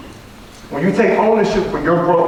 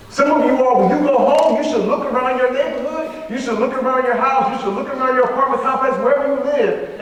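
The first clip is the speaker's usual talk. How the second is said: fired up; 5 semitones higher than usual. Real, not acted. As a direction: lift them up, rising call. Motivational speaker rising up.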